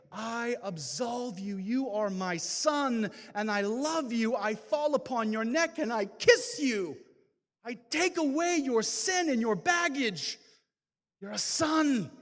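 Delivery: from gentle absolution up to a loud "You're a son"; voice of God, building. Retold or imitated. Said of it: "hear the voice of God say".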